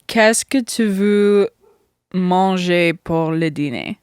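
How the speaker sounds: slow careful French. Shown as a demonstration. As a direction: speak French slowly. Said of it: "what do you wanna eat for dinner?".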